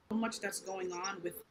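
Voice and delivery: very soft, barely audible answer; too quiet. Real, not acted. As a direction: speak far too softly to be heard clearly. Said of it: "we can't really hear you as clearly".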